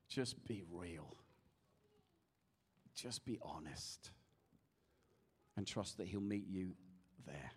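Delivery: very low, slow, soft prayer voice; hushed reassurance. Real, not acted. Preacher guides worshippers with eyes closed, hushed and slow. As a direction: coax them gently, leaving space between phrases.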